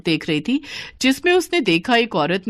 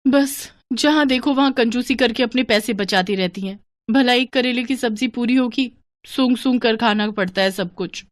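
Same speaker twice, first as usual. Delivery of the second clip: higher daughter-in-law voice grumbling to herself; annoyed bahu muttering in a raised voice; 4 semitones higher than usual. Acted. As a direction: complain under your breath about the stingy saas. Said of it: "मन ही मन क्या बुदबुदा रही है".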